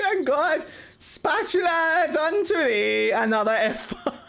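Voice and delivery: laughing mock scripture. Shown as a demonstration. Mock biblical decree read aloud, slowly and laughing. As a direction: intone scripture while cracking up.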